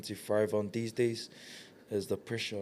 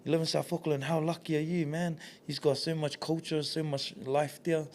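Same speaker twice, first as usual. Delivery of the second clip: admiring; 6 semitones higher than usual. Retold or imitated. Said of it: "I want everyone to be like".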